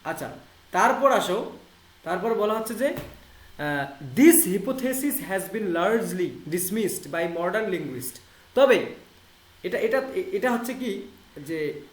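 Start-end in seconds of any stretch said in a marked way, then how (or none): 4.2-8.2 reads each English word slowly and clearly; slow English reading. Shown as a demonstration. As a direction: read the quote out slowly, word by word. Reading English text aloud. (ধীরে ইংরেজি পড়া)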